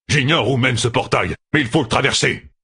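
urgent call. A narrator's reading. Red arm urging Fail through the portal, calling out. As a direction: call it out, pressing her to go. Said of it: "du cri du bras rouge".

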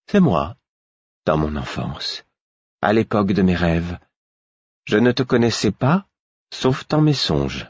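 measured tone. Acted. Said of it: "d'un ton mesuré".

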